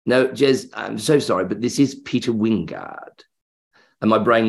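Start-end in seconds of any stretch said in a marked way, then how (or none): 0.1-3.2 lightly imitated honeyed actor; Peter Wyngarde. Actor insists to doubting fan, honeyed and apologetic. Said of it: "It's not a bad impression".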